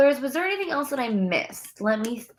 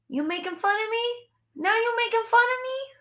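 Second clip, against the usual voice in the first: higher, playful accusation; mock offended; 11 semitones higher than usual. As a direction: tease back in fake outrage.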